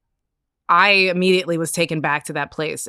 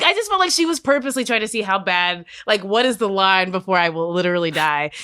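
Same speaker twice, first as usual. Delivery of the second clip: ordinary delivery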